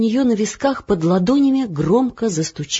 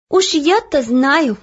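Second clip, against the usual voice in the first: slow, drawn-out sigh of a line; slowly, with a sigh; 7 semitones higher, 5 dB louder, slower than usual. Acted. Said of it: "вздохнула Оля". (со вздохом)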